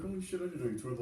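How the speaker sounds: surprised. Retold or imitated. Surprised comedian meeting on road.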